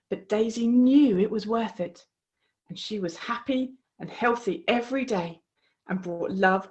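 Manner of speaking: put-on gentle storybook narration for kids; reading to children. A narrator's reading. A host reading a picture book to children, gently. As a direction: read it like a bedtime story.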